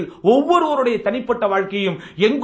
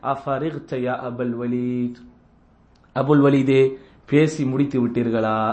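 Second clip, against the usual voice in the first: calm gentle question; 10 semitones lower, slower than usual. Retold or imitated. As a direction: ask gently, with no hurry. Prophet's calm patient question. (அமைதியான மென்மையான கேள்வி)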